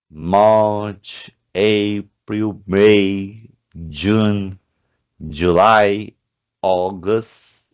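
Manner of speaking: January to December each said separately and clearly; teacher listing months; month names read out. Shown as a demonstration. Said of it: "Escrevemos a pronúncia".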